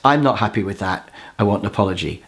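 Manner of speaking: even, slightly low statement of fact; calm assertiveness. Shown as a demonstration. An assertive person asking for an apology, calm. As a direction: say it calmly and firmly. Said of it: "the assertive person just calmly says".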